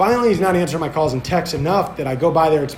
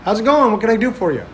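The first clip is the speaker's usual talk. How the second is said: higher-pitched, imitated shopkeeper welcome; easygoing customer-service cheer, pitched up; oblivious friendly greeting; 6 semitones higher, faster than usual. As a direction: greet a stranger breezily, mimicking him. Shop owner who has no clue.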